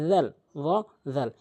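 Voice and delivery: "জাল" thin with spread mouth, "র" rounded; thin "জাল", full "র". Shown as a demonstration. Teacher contrasts same-place letters, thin "জাল" and full "র". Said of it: "রটা পুর, মানে মুখ গোলাকার".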